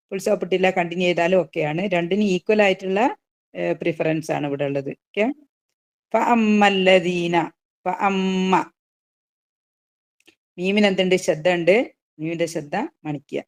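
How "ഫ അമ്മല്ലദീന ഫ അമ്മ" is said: slow tajweed chant; measured recitation; Quran recitation. Shown as a demonstration. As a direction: recite carefully, drawn out. Recites verse.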